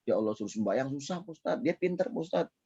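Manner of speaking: quiet, grieving parent complaining to the teacher; a hushed, sorrowful sigh of a hurt parent; sad parent lament. Retold or imitated. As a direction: softly lament a child who talks back. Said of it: "sedih orang tuanya".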